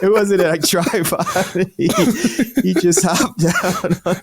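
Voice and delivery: words squeezed out through real laughter; can barely talk for laughing; laughing hard. Real, not acted. Laughter continues after the interruption.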